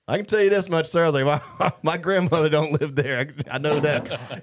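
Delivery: insistent protest. Retold or imitated. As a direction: protest loudly, retelling your own defense. Acted protest to the cop.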